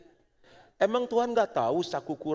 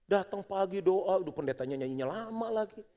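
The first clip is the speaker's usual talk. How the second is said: mocking complaint; 6 semitones higher than usual. Preacher mimics outsiders scoffing at early prayer, higher mock grumble. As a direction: scoff like a friend who thinks you're crazy. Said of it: "Orang lain lihat kita begini".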